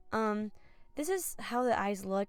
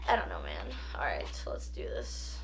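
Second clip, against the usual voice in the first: whispering; 4 dB quieter than usual. Real, not acted. Whispered aside after laughing.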